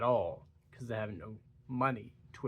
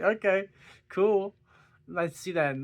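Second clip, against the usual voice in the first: sarcastic; 7 semitones higher, 7 dB louder than usual. Real, not acted. Sarcastic comment.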